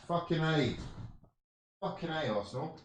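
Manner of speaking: soft sour mock cheer; sarcastic mutter. Real, not acted. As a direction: mutter it bitterly.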